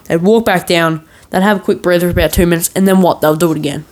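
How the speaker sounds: ordinary delivery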